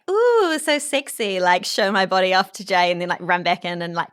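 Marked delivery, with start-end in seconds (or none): 0.1-1.4 high, slow mock-seductive coo; playfully sexy. Showing off body to partner, playfully sexy. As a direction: show yourself off with a drawn-out, raised "ooh". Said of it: "kind of, like".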